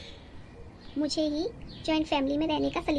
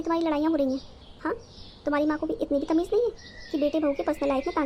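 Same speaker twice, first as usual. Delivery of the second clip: angry yelling; faster than usual. Acted. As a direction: shout it out, fed up with her meddling. Wife shouting at mother-in-law. (गुस्से में ज़ोर से चिल्लाती बहू)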